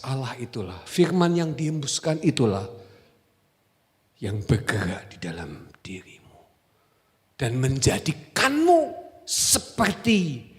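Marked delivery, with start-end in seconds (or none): 4.2-10.5 whisper, then slow drawn-out words; hushed whisper. Acted. Preacher tells the congregation how God's breath moves within them, hushed. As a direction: draw them in with a hush.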